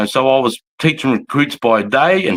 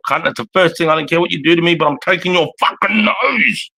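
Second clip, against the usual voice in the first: retold threat; 7 semitones higher than usual.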